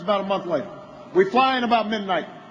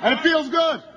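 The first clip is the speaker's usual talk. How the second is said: higher, rising excitement; getting fired up; 4 semitones higher than usual. Real, not acted. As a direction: let the energy build as you join in. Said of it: "I'm feeling kinda fired up".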